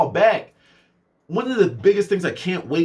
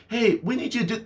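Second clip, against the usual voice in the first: mock boss; 4 semitones higher than usual.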